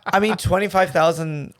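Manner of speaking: breathy, playful seductive voice; sexy voice. Pretend. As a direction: purr it like a flirt. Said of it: "let's do it in the sexy voice".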